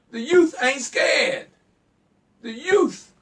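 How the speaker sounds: high, loud shouted declaration; slow rallying shout. Real, not acted. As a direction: shout it out to the whole audience. Heated call-in rant at listeners.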